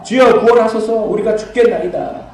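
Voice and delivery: cried out loud and high, pleading; desperate cry for help. Retold or imitated. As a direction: call out to the Lord like the panicked disciples. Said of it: "제자들이 나와".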